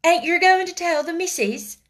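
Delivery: high, loud worried maid; gasped, anxious. A narrator's reading. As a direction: ask as if dreading punishment. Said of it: "she gasped".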